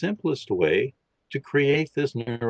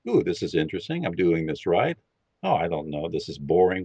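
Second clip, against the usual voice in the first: mind chatter; 5 semitones lower, faster than usual. Retold or imitated. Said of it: "your mind is still chattering".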